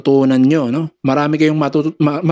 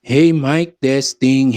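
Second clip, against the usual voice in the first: mid-range restored; much slower than usual. Shown as a demonstration. Sound tech showing mids turned up, less muffled voice. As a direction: open mic check with mids back. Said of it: "lagyan natin ng mid-range".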